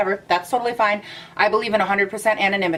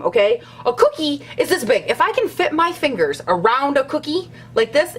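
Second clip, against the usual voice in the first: over-the-top mock fury about small cookies; mock outrage; 5 semitones higher than usual. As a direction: play it as a fake-furious cookie tirade. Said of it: "that was really dramatic".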